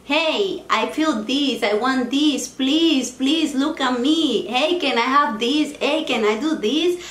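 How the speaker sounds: put-on pleading inner child. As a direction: beg for attention like a neglected little girl. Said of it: "screaming and telling you".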